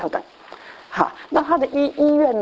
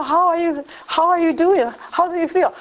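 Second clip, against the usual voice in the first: lightly voiced doctor; 5 semitones higher than usual.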